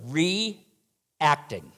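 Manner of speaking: reacting, set apart and weighted after a pause; stressed word. Shown as a demonstration. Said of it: "And I stress that word".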